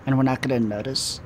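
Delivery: slow theatrical villain menace. Acted. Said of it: "Almost like a Spider-Man supervillain voice".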